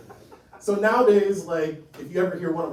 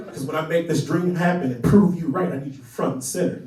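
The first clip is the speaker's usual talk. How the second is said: tense, loud declaration of need; half-yell it at a parent on the phone; 2 semitones lower, 6 dB louder than usual. Acted. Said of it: "kind of yelling, half yelling".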